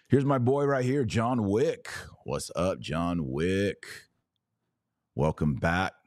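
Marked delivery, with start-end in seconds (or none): 0.1-1.9 excited greeting. Real, not acted. Greeting a viewer.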